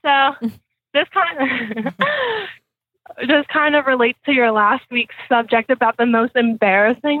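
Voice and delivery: talking through a mouthful of popcorn; eating popcorn while talking; munching popcorn. Real, not acted. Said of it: "Sorry, I'm eating popcorn".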